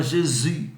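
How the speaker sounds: Jésus said the French way, zhay-ZU; French pronunciation of Jésus. Shown as a demonstration. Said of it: "em francês a gente fala".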